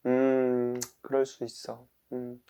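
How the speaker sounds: soft, accepting self-talk; understanding. Pretend. Speaker shows understanding toward oneself, softly accepting. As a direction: murmur it gently to yourself. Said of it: "이해하는 거예요".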